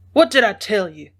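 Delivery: half-hearted narrated shout. A narrator's reading. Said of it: "he shouted".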